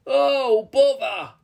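high, loud troll wail; frustrated troll. A narrator's reading. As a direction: cry out as the plan unravels. Troll is spun around.

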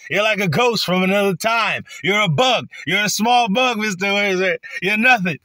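mock official shouting insults; retold screaming. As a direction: yell him down as a bug. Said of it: "he's just fucking screaming".

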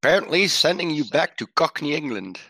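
a hint of a put-on cowgirl accent, snapping back; Annie's accent. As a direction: Annie answering the gunman's taunt in a shaky put-on accent. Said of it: "my accent is gonna change".

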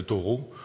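Thoreau said the French way, /tɔʀo/, with a French R and stress on the last syllable; French pronunciation. Shown as a demonstration. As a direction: give Thoreau a French sound, not English. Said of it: "je franciserai son nom".

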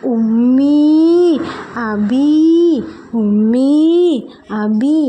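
hammed-up crying calls, stretched slowly; crying lamb. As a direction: lamb calling for its parents in a mock cry. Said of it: "കരഞ്ഞുകൊണ്ട് എന്താണ് പറഞ്ഞത്?".

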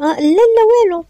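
high, loud flustered denial; startled denial. Acted. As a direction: caught out, blurt a panicked no. Caught spying through window.

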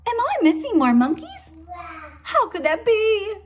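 high, loud near-tearful worry; a mother on the edge of tears; panicked Mama. Acted. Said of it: "gasps Mama".

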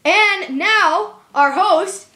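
grand announcer intro. Acted. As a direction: hype it up like a ring announcer. Announcer opening a contest.

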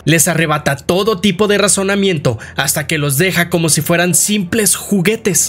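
animated storytelling, pitched above the chatty voice; dramatic game-recap narrator; story narration. A narrator's reading. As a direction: recount a dark tale with emphatic flow.

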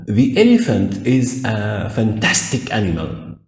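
slow, careful reading; slow example sentence. Shown as a demonstration. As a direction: model the sentence slowly. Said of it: "يبقى يقصد بيها".

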